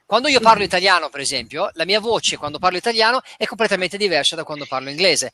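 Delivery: his Italian-speaking voice. Shown as a demonstration. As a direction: let your voice change as you slip into Italian. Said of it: "my voice changed completely when I speak Italian".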